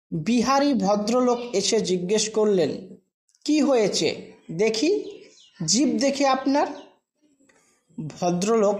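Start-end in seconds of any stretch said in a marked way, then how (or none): none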